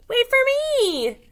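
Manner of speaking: high, slow calling sheep. A narrator's reading. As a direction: call out high and drawn out. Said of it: "Sheep called".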